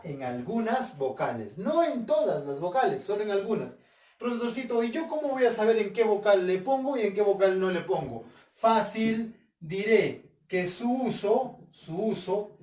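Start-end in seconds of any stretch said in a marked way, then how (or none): 4.2-8.2 higher-pitched, lightly acted pupil's question; questioning student. Student asks the teacher where the accent mark goes, puzzled questioning. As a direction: play a pupil appealing to the teacher.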